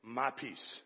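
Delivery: My peace murmured low and soft; tender hushed quote. Acted. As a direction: quote Jesus gently, almost whispered. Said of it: "Jesus saying".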